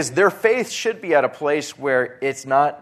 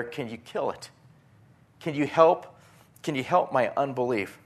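a hint of the desperate father's plea; pleading father; 4 semitones higher than usual.

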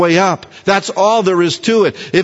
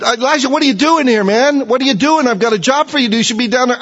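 voicing God; 6 semitones higher, faster than usual. God rebukes hiding Elijah.

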